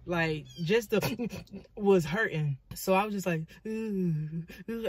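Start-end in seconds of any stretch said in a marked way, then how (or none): 1.0-1.7 soft, stifled pained breaths; hushed mock whimper; imitated pained cry. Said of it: "I can't even cry". 3.7-4.9 drawn-out pained "ooh"; weak mock moan of pain; imitated pained moan. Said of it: "I couldn't even cry".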